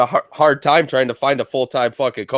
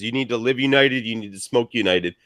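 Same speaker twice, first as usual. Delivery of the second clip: ad read. Acted. Sponsor ad read.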